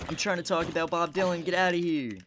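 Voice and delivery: real irritation, shouting them away; angry shout. Real, not acted. Vlogger yells at people interrupting his video, angry shout. Yelling at intruders mid-video.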